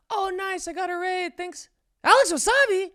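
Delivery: high-pitched retelling, jumping into loud disbelief; imitated fangirl freak-out. Streamer spots who raided her, imitated freak-out. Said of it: "And she started freaking out".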